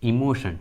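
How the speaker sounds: "इमोशन" with a clear sh before the ending; sh sound for T. Shown as a demonstration. Teacher showing that T sounds as sh in "इमोशन". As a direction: say "इमोशन" as i-mo-shan. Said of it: "टी का आवाज़ श आ रहा है".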